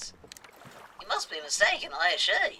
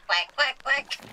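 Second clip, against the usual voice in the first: mock-frantic quacks, a bit louder; frenzied drunken quacking; 6 semitones higher, 4 dB louder, slower than usual. Duck quacking in a frenzied rush of emotion. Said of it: "In a frenzied rush of emotion, as if drunk".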